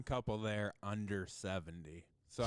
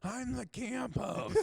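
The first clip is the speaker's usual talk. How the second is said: high, slow mock protest; imitated camp host; 11 semitones higher, slower than usual. Camp host answering the yelling camper, high mock protest. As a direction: draw it out as the host, half laughing. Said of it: "And he goes".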